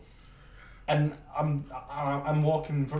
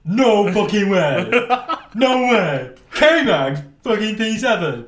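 loud, laughing shout of disbelief; retold loud, laughing disbelief at a great result; disbelieving joy; 6 semitones higher, 10 dB louder, slower than usual. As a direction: celebrate loudly in disbelief. Friend celebrating qualifying result.

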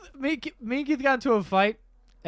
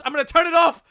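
mock mom threat; 8 semitones higher, 7 dB louder, faster than usual. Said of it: "And she goes".

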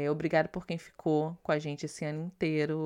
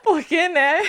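laughing; 14 semitones higher, 13 dB louder, slower than usual. Real, not acted. Bursting into laughter on air.

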